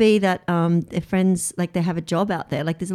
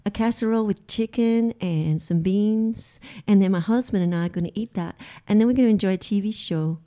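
a hint of a southern housewife accent, lightly done; a mock Southern homemaker, understated; bad southern accent. Co-host plays a southern housewife in a bad accent. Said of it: "this accent sounds terrible".

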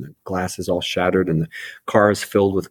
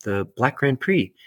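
higher, mildly retold insisting; pitched-up claim that the car is his; insistent protest; 6 semitones higher than usual. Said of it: "And I said".

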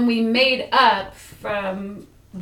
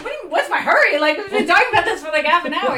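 high, loud, incredulous comeback; retold exasperation; 6 semitones higher, 6 dB louder, much faster than usual. Woman held up at the door, retelling her exasperation. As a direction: throw the question back, half laughing.

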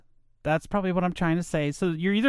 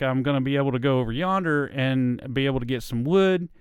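Southern drawl; 3 semitones lower than usual. Shown as a demonstration. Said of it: "I talked a lot like this".

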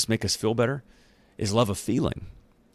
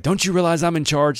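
indignant Pilate; 9 semitones higher, 5 dB louder than usual. Retold or imitated. Pilate voiced again, indignant.

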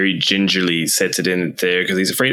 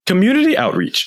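higher, firmer but calmer repeat; clear repeated request; 12 semitones higher than usual. Acted. Player repeats choice to machine.

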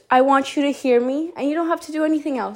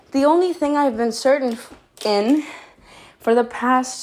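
winded, catching breath between words. Real, not acted. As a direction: talk while still short of breath. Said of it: "sorry, I'm out of breath".

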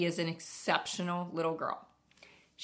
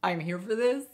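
rising, louder enthusiasm; eager reply; 5 semitones higher, 8 dB louder than usual. Retold or imitated. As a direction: egg her on eagerly. Host eagerly answers teen.

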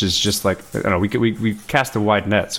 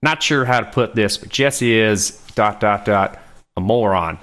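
lightly put-on backwoods reading voice; 3 semitones higher than usual. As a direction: read the review with a hint of backwoods. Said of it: "in your backwoods voice".

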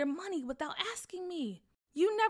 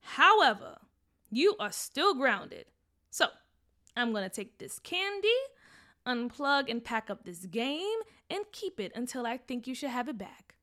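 firm mom; 3 semitones higher, 7 dB louder than usual. Acted. Mom grounds son.

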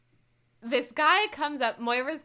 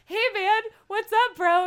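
bro voice; 9 semitones higher, 6 dB louder than usual. Retold or imitated. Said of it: "he goes".

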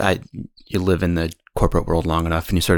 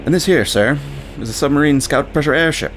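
put-on British accent; 7 semitones higher than usual. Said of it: "try a terrible British accent".

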